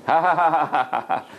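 staged ha-ha laugh, starting high and falling; acted laughter. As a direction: burst out in a performed string of laughs. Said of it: "Then he started laughing".

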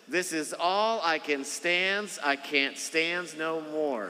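high, slow, gruff cartoon sailor voice; Popeye impression. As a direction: drag it out like Popeye at the end of his rope. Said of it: "Do you guys remember the cartoon Popeye?".

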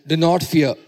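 loud proclamation, short of a scream; mock scream. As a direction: proclaim it firmly to all mankind. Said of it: "the gospel screams to mankind".

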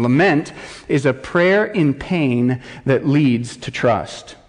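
slow, weighty definition read; measured, emphatic reading; slow deliberate definition. Shown as a demonstration. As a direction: lay each word down slowly. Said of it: "here is his working definition".

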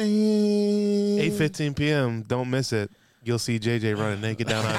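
mock announcer. Friend hyping the Monday game, mock announcer. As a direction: announce the time like a TV ad.

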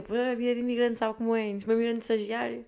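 mock poor immigrant. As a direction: play the hard-up immigrant for sympathy.

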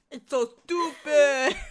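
high, laughing mock wail; mock rant through laughter. Co-host echoing the servant's rant, laughing mock exasperation. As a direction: squeal it out while cracking up.

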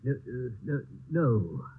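stammering nervously; stutter. Acted. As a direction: trip over the words. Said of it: "Don't stutter".

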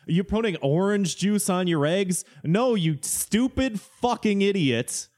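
hammed-up know-it-all scolding; mock condescending pedant. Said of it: "people being like".

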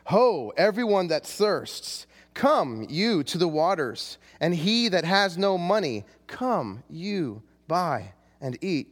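slow, swooping proclamation; impassioned old-time preacher. Acted. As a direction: call out grandly, stretching each phrase. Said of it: "That's my best impression".

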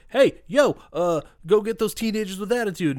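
high, loud goofy villain command; villain boss order. Retold or imitated. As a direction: bark it like a cartoon villain. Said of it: "then they're like".

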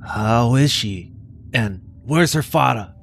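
a hint of a worried teen pleading with the farmhand; upset teen Billy. Teen demanding answers from the farmhand, upset.

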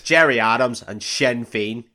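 demonstrating a put-on Irish accent. Shown as a demonstration. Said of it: "you need certain words to get into certain accents".

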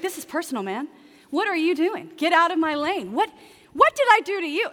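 hammed-up outrage, building to a yelled question; mock road rage. Driver cut off in traffic, venting at them: mock road rage. Someone cuts you off driving.

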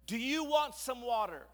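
high, loud crowd question; rally the crowd with a question; rallying call. Acted. Moses works up the crowd.

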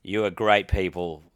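mildly sincere, subdued address; retold apology, understated and earnest; compassionate apology. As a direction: apologise gently to the audience. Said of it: "I had absolute compassion".

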